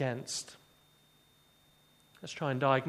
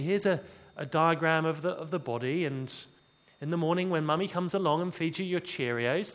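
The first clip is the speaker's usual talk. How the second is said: patient teacher. Retold or imitated. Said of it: "like the A-level teacher".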